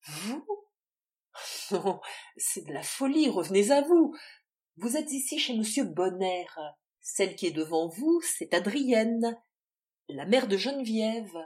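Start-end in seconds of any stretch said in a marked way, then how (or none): 1.7-11.4 loud outraged denial; indignant shout. Acted. Adrienne rejects the claim, shouting.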